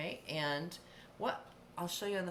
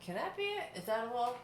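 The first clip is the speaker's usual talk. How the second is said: disbelief; 5 semitones higher than usual. Retold or imitated. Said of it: "And I'm like".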